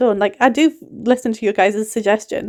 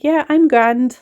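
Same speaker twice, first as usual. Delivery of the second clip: light Irish phrase; slower than usual. Retold or imitated. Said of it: "when you're describing how you're feeling and you're like".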